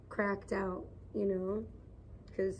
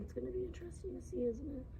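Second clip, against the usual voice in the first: squeaky teasing voice; 6 semitones higher, 9 dB quieter, faster than usual. Pretend. Repeats whisper in a put-on voice.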